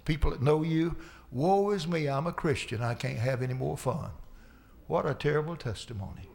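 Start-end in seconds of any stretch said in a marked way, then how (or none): 1.3-4.1 mock moping. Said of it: "moping around out there saying".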